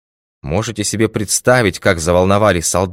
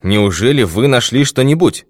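higher-pitched, incredulous question; astonished; 6 semitones higher, 3 dB louder than usual. A narrator's reading. Baffled doctor asking whether the detective found something, astonished. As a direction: ask it in mild disbelief. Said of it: "выражение крайнего недоумения".

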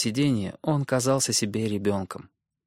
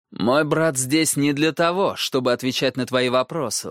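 sharp retort; 3 semitones higher than usual. Acted. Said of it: "резко возразил Роб".

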